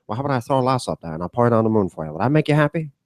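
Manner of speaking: lightly done quick-talking film star impression; a hint of an old-movie suitor, rising at the end; Jimmy Stewart. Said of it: "I do a better Jimmy Stewart though".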